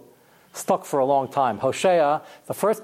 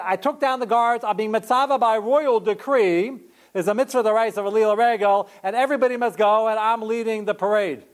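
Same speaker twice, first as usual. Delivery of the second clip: a lightly voiced king's decree, raised; royal proclamation; 5 semitones higher than usual. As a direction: proclaim it like a ruler. Imagined proper royal decree.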